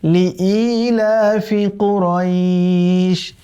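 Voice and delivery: slow, drawn-out melodic tilawat; Quran recitation. Shown as a demonstration. Teacher recites the verse for students in slow melodic chant. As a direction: chant the verse slowly with long held vowels. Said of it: "আমরা বলবো কুরাইশ".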